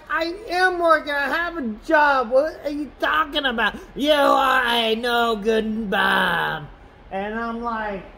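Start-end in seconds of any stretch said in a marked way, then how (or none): 0.1-6.7 high indignant retort. Retold or imitated.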